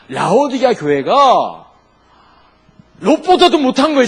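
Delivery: slow then loud and high on 롯보다도; emphatic preaching. Real, not acted. Preacher telling congregation Laodicea is worse, loud stress.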